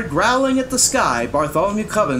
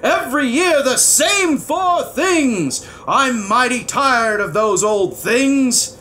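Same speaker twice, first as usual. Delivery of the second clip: slow, high, angry bellow; weighty royal complaint, each word pushed out; 8 semitones higher, 4 dB louder, slower than usual. A narrator's reading. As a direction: bellow like a fed-up king. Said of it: "bellowed the king".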